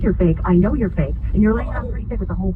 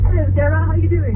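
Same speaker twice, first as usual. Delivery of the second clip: higher, louder mock British greeting; exaggerated imitation of a British hello; mocking British accent; 8 semitones higher, 5 dB louder than usual. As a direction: parrot the caller in a put-on British accent. Mocks caller's greeting in his accent.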